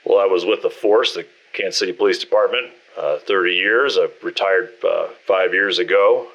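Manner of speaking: put-on hesitant, stumbling old cop; stuttering old cop. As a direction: stammer through it, caught off guard. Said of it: "starts to stutter a bit".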